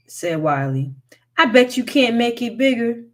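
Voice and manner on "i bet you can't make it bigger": taunting. A narrator's reading. Wiley taunting the hairy man.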